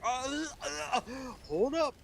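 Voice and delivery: God voice. Acted. God voiced as pushy boss.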